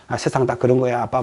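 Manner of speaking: low, soft consoling murmur; a child playing the grown-up to comfort dad; mock soothing. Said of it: "애가 또 싹 달래주고". (아빠를 달래듯 낮고 조용하게)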